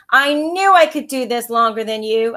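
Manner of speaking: put-on dizzy kid shouting from the carousel; proud shout. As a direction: crow it out to your brother. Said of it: "I shouted to my brother".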